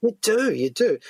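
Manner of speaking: ordinary delivery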